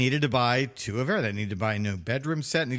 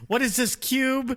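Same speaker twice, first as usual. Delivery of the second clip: confused grandma; 12 semitones higher, slower than usual. Pretend. Mocking grandmother with camera.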